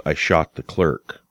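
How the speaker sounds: "I shot the clerk." read out slowly as a statement; flat confession. Acted. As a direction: state "I shot the clerk." with a falling end, no question in it. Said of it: "It becomes a confession".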